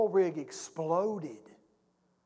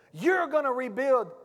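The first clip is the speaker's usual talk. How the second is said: raised, insistent hero's command; forceful urging; 4 semitones higher than usual. Acted. Hero turns back to the panicking woman, forceful urging. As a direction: push someone past their panic.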